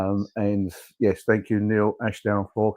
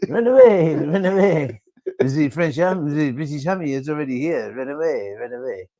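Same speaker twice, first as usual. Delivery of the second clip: panicked fleeing soldiers; 4 semitones higher, 4 dB louder than usual. Acted. Mimicking fleeing French soldiers.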